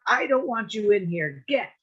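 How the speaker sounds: put-on angry old lady shooing snakes; furious shout. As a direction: chase them out of the yard. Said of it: "was furious. She jumped up and down".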